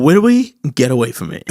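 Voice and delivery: mock huffy oddball; comic put-on accent. Customer sending the waiter away, comic babyish accent. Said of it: "I've been saying that accent all weekend".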